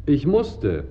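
death rattle. A narrator's reading. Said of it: "röchelte der Wurm".

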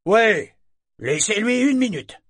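high, loud overriding answer; firm declaration. A narrator's reading. Shipmate answers for the boy, declaring firmly. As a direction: talk over him decisively. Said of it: "Torg déclarait fermement".

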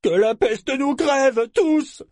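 high, loud, slow curse; bitter last pirate. Acted. The last pirate cursing them all, loud bitter curse. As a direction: spit the curse out as he goes. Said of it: "déclara le dernier".

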